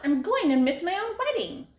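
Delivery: high, loud panicked yelling; frantic lady yelling as she runs. A narrator's reading. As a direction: shriek it like a lady running late. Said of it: "She was yelling".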